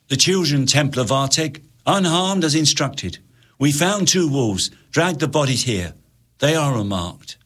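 formal sergeant report; soldier reporting. Acted. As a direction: report dutifully to the Templar.

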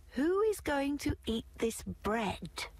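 high hen voice; high hen asks the others; little red hen asking. A narrator's reading. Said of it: "asked the little red hen".

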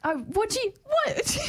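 high squeaky disbelief; shocked, high-pitched protest; indignant surprise. Real, not acted. Indignant at accusation.

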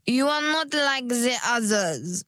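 woo the client; sales pitch voice. Acted. Stylist's flattering sales pitch.

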